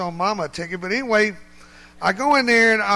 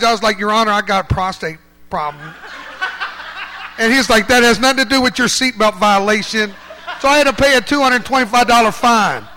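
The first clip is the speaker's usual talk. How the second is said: louder, laughing through the punchline; 9 dB louder than usual. Real, not acted. Man telling the congregation his traffic court punchline, laughing loudly. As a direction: let the laughter spill into it.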